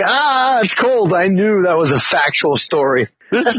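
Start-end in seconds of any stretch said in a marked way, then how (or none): 0.0-1.1 tag. Retold or imitated. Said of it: "But when you told me".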